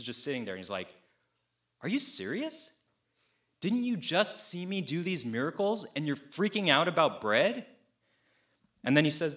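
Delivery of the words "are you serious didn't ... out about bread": higher-pitched disbelieving questions; mock incredulity. Jesus to disciples fretting over bread, mock incredulity. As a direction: act out exasperated disbelief.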